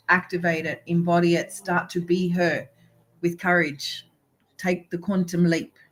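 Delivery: preaching. Real, not acted. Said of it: "Today is gonna be a sermon day".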